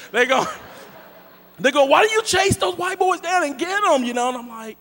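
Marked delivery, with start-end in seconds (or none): 1.9-4.0 put-on higher kid voice, teasing question; a hint of a cheeky kid; lightly voiced teen. Kids voiced asking.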